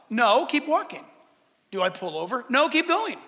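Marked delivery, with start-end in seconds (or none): 1.7-2.5 low mock question; doubtful questioner. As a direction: drop the pitch for a naive question.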